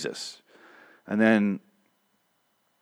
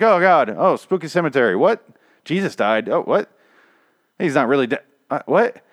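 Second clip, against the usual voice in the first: higher, louder string of baffled gasps; hammed-up confused reactions; mock bewildered viewer; 6 semitones higher, 6 dB louder than usual. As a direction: overplay confusion at each twist. Mocking viewer's rushed reactions.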